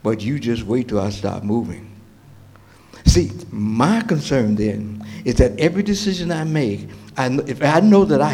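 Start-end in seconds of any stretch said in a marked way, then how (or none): 0.0-1.9 lightly voiced Lord, low and restrained; voiced divine answer. The Lord answers Habakkuk's complaint, low measured reply. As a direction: answer low and unhurried between pauses.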